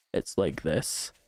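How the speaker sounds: creaky, bubbling vocal fry through every word. Explaining what vocal fry is, then demonstrating it: vocal fry. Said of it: "vocal fry ... a bubbling sound when you talk. It's like this".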